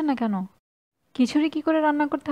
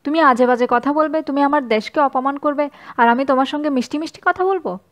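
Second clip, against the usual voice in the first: angry retort; 3 semitones higher, 3 dB louder than usual. Acted. Mizan rages at the advisor.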